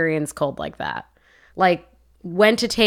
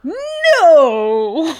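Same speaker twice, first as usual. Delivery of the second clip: put-on "No." said higher in a light Canadian accent; 8 semitones higher, 5 dB louder than usual. Proving her cohost's point, a Canadian "No.". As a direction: show off the Canadian "No." on cue. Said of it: "Every time you say no".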